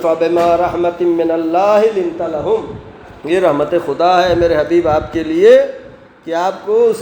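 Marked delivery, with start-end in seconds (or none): 0.0-2.9 measured Arabic recitation; Quran recitation. Acted. Preacher reciting a Quran verse to his congregation, in measured recitation.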